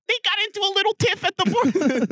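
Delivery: high, prim, airy understatement; very high mock-genteel documentary guest; understated documentary voice. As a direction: play down a war like a genteel old expert. Mocking documentary interviewee.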